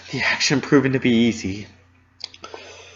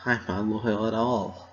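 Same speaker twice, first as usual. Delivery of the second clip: shuddering; 3 semitones lower, 5 dB quieter than usual. Acted. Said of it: "I shuddered as I took another shaky breath".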